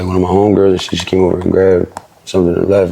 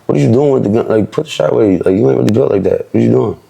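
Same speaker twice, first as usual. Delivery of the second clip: higher-pitched, exasperated retold protest; mildly exasperated, voice pitched up, no shouting; fed-up retort; 3 semitones higher than usual. Retelling what he told the man holding a gun, fed up. Acting out his fed-up argument.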